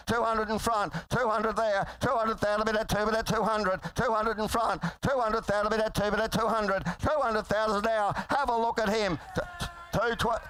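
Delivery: rapid rolling auctioneer chant; frantic trading floor shouting. Real, not acted. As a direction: rattle off the bids like an auctioneer. Auctioneer calling bids.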